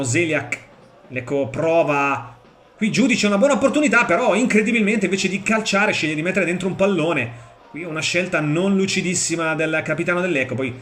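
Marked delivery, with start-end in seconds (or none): 2.8-7.3 high, quick opening, easing slightly; animated disbelief. Real, not acted. Commentator reacts to striker passing instead of shooting, incredulous. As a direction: call the wasted chance on a raised pitch.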